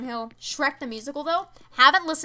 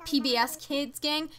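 ordinary talk

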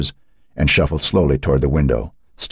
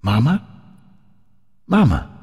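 ghostly voice calling; 7 semitones higher than usual. A narrator's reading. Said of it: "The voice was barely a whisper".

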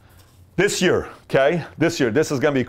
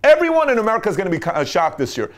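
high, mock-grand voice of the man upstairs; the man upstairs declaring his surprise, in a high mock-grand voice; voice of God; 9 semitones higher, 4 dB louder than usual. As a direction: announce it like a playful god above. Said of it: "the man upstairs is watching saying".

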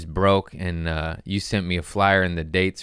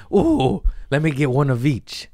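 greedy delight; 5 semitones higher than usual. Retold or imitated. Greedy kid in lounge.

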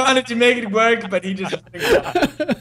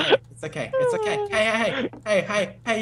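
soothing coaxing; 3 semitones higher, 5 dB quieter than usual. Pretend. Coaxing a scared creature or player.

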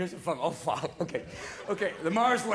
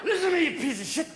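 hint of a bar-room drunk picking a fight; mock-aggressive drunk; belligerent drunk; 4 semitones higher than usual. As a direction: act mildly drunk and confrontational. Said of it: "Alcohol changes your mood sometimes".

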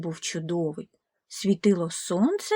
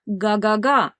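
car honk; 4 dB louder than usual. Acted. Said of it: "повторив автомобіль".

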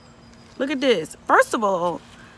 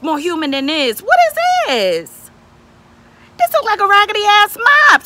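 outraged rant; 3 semitones higher, 3 dB louder than usual. Real, not acted. Vlogger ranting at the wig company, furious and loud. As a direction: blast the company's sloppy work.

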